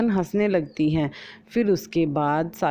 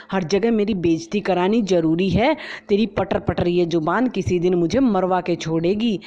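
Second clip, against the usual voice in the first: scolding; 2 semitones higher than usual. Acted. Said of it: "खरी खोटी सुनाती है".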